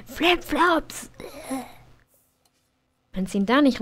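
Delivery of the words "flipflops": laughing. Real, not acted. Laughing at sim's shoes.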